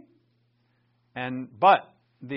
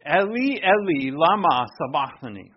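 Eli, Eli, lama sabachthani cried out louder; 6 dB louder than usual. Acted. Preacher voicing Jesus shouting from the cross. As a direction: lift it into a cry from the cross. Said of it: "Jesus cried out with a loud voice".

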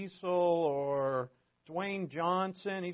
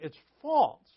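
loud and higher, hammering the word false; emphatic declaration; 8 semitones higher, 9 dB louder than usual. Real, not acted. Pastor driving the point home to his congregation, loud emphatic. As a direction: proclaim false like a verdict to the room.

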